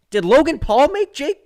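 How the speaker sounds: high, laughing through the words; laughing question. Real, not acted. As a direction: crack up while asking. Absurd slip, bursts out laughing.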